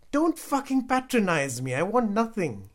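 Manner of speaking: high, very loud angry outburst; furious shout. A narrator's reading. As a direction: shout your brother down in fury. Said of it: "he shouted".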